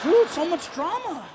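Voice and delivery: mock exasperation. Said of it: "I'm like".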